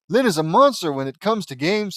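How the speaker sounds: lively mock British accent. A narrator's reading. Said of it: "says Gabriella in a British accent".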